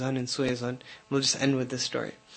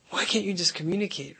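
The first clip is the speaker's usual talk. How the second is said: mildly exasperated husband, voice pitched up; getting mad; 4 semitones higher than usual. Retold or imitated. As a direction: imitate a husband starting to lose patience. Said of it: "Now he starts getting mad".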